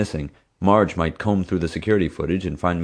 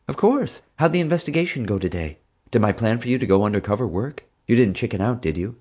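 put-on raised girl's voice, teasing; voicing Summer; 5 semitones higher than usual. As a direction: lift into the girl's voice and needle him.

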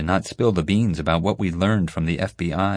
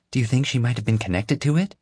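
excited; 7 semitones higher, faster than usual. A narrator's reading. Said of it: "Violet asked excitedly".

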